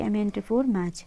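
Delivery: slow, letter by letter dictation; spelled-out shortcut. Shown as a demonstration. Teacher dictating a shortcut to students, slow and spelled out. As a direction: spell the command out slowly for students. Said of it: "dictating a keyboard shortcut".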